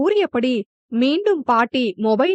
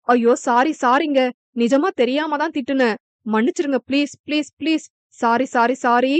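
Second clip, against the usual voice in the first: pleading. Acted. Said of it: "என கெஞ்ச".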